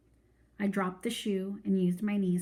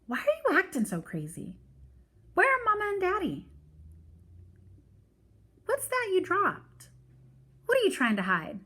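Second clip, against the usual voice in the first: put-on higher, rising alarmed girl voice; a small girl getting scared; little sister asking where her parents are; frightened little sister; 11 semitones higher than usual. A narrator's reading. Joey voiced in the story.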